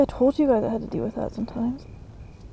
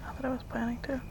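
whispered aside; 7 dB quieter, faster than usual. Real, not acted. Aside to viewers, joking.

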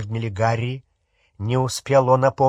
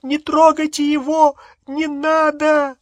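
high terrified scream; 4 dB louder, slower than usual. Acted. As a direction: shriek for them to stop. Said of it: "а Гермиона закричала".

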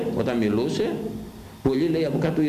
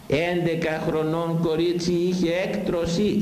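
slow shocked lament; 4 semitones higher, slower than usual. Real, not acted.

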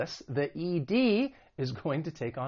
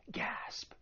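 gasp; 13 dB quieter than usual. Shown as a demonstration. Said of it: "use this as an interjection".

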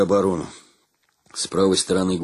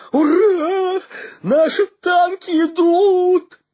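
much higher, loud, drawn-out cheering cry; joyful shout; 7 dB louder, much slower than usual. A narrator's reading. Gromykhalo spotting Soviet tanks, joyful loud yell. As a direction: yell it out with wild joy. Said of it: "вдруг закричал".

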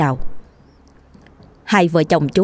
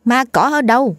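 higher, incredulous questioning; surprised; 6 semitones higher than usual. Acted. Wife questioning her frightened husband, higher and incredulous. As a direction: ask in startled disbelief. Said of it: "Cô Mận ngạc nhiên hỏi lại".

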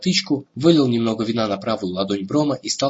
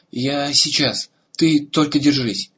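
higher, pleading reassurance; anxious reassurance; 4 semitones higher, slower than usual. Acted. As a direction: urge him to hold on. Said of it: "в отчаянии". (встревоженно умоляет)

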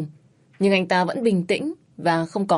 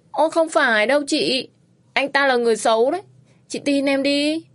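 pleading; 7 semitones higher than usual. A narrator's reading. Pleading with the seller.

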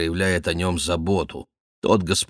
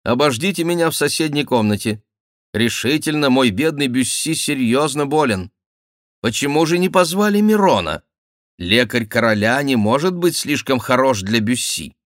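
high, emphatic ducal voice; lordly duke, concerned; 7 semitones higher, 4 dB louder than usual. Acted. Duke addresses his suite about his sick friend, high and emphatic. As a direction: order the suite out in a high, animated voice.

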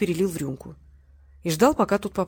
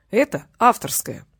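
slow, mock-stern correction; 3 semitones higher, 4 dB louder, slower than usual. Valery sternly corrects Tanya about his approach, slow and firm. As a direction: set her straight with a stern tone. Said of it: "строго сказал Валерий".

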